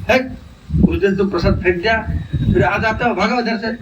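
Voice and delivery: mock-angry priest chasing someone off. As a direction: scold and shoo them away, in storytelling style. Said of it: "तो पुजारी गुस्सा किया".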